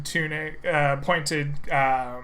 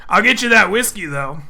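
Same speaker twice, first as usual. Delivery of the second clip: louder barman covering his confusion; orc barman; 4 semitones higher, 5 dB louder, faster than usual. Acted. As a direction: offer the whiskey to change the subject.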